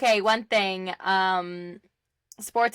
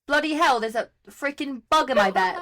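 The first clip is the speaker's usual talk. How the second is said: hammed-up mock British accent, a bit higher on Bloody hell; nervous, amateur British accent; bad British accent; 4 semitones higher than usual. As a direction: play a British person grumbling in an over-the-top, clumsy British accent. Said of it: "I can actually do a better British accent".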